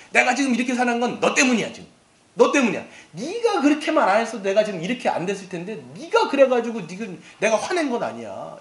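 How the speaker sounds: a touch of an angry spouse ranting; mock accusing rant. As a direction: point the finger and complain. Acted spouse blaming partner.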